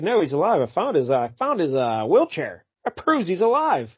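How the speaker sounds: lightly voiced stubborn widow; a hint of a stubborn wife; mock insistent wife. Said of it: "She's like".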